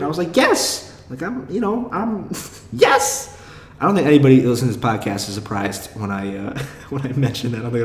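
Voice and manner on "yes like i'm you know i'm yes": a much higher, bright burst of yes with a laugh; emphatic yes. Retold or imitated. Comedians ask if he's really a virgin, and he gives an excited, high laughing yes. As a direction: blurt it out, half laughing and proud of it.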